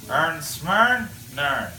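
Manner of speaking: terse Newfoundland fisherman exchange; Newfoundland accent, words squashed together; Newfoundland dialect. Shown as a demonstration. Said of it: "idea of our dialect here in Newfoundland".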